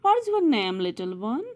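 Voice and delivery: high, sweet teacher voice; bright kind teacher asking the child's name; teacher's question. Acted. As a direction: ask it kindly like a teacher to a small child. Teacher voiced reading story aloud.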